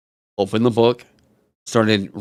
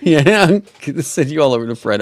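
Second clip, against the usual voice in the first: laughing; 5 semitones higher, faster than usual. Real, not acted. Laughing after raid joke.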